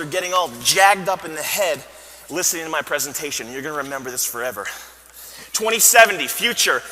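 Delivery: hammed-up guru voice over music; mock motivational speech. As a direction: sell the vision to the crowd. Repeats rehearsed line.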